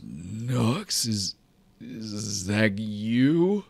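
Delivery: a hint of a wary friend reaching out; Pusher asks gently. GM voices Pusher in story.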